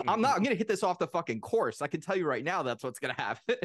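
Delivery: a retold half-played outburst of anger; mad. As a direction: imitate a sore loser snapping back. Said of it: "I got so mad".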